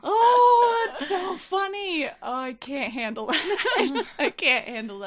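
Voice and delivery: high, shrieking laugh fading to slow giggles. Real, not acted. Host cracking up at the cupcake story, laughing helplessly. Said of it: "laughing at the story".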